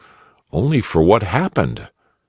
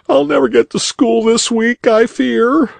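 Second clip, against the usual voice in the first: put-on tearful boy. A narrator's reading. Crying boy answering the rabbit, high young voice. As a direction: play the upset schoolboy, pitched up.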